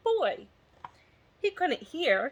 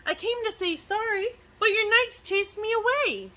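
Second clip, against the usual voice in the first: dragon pleading; 9 semitones higher than usual. Acted. Dragon explaining the accident to the king, high and pleading. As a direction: explain yourself, hurt and earnest. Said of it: "he roared".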